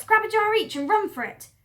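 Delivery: high, loud hurried whisper-free order; urgent Mr Fox. Acted. Fox urges his friends to grab jars and flee. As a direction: urge them to run.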